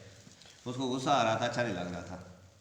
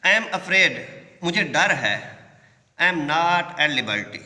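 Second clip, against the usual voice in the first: a strong, raised reading of the quote; teacher voicing the reply to the class; louder emphatic read; 3 semitones higher, 5 dB louder, much slower than usual. Shown as a demonstration. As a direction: read it out loud and firm. Teacher reads quote, loud start.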